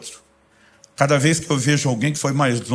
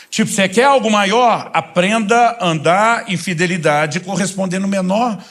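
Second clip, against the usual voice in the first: preaching hard, raised pitch and punchy stresses; forceful exhortation; 5 semitones higher than usual. Real, not acted. Preacher challenging churchgoers about obedience, forceful exhortation. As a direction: drive each challenge home to the congregation.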